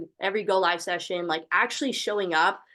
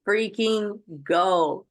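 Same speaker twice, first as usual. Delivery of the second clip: excited cheer; 4 dB louder, much slower than usual. Real, not acted. Cheering the speaker on the call.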